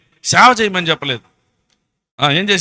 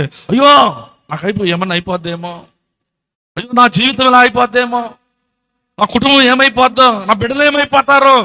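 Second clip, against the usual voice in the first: higher-pitched imitation of anxious people; acted worry; 5 semitones higher than usual. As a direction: fret aloud like someone fearing for their family. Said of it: "కొంతమంది భయపడిపోతా ఉంటారు. ఏమనంటే".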